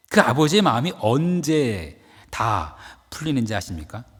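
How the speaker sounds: ordinary delivery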